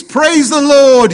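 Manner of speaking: very high, loud, stretched-out holler; old lady's yell. Acted. Old lady calling out for weeks, full-voiced praise yell. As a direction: belt it out high and slow. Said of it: "yells the little old lady".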